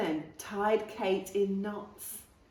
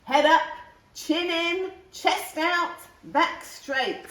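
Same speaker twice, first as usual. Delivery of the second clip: higher, louder parade-ground commands; barked drill orders; 8 semitones higher, 4 dB louder than usual. A narrator's reading. The brigadier drills the dog, higher and louder. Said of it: "said the Brigadier".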